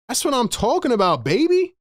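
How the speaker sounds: pumped-up hype cheer; excited. Real, not acted. Celebrating the shot.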